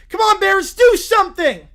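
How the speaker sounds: high, loud pleading yell; desperate cheer. Acted. Little Brown Bear yelling at his team, high and loud. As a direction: beg your team to score.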